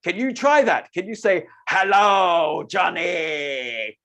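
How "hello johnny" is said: wide-mouthed, booming call; big open mouth voice. Shown as a demonstration. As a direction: open wide and boom the greeting. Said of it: "with a big, wide open mouth".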